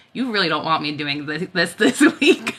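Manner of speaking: giggling, the words breaking up; laughing harder toward the end; trying to say it while cracking up; laughing through it. Retold or imitated. Quoting her text, laughing.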